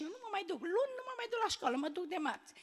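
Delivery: put-on a boy digging in his heels; mild imitation of a scared, stubborn little brother; child refusing.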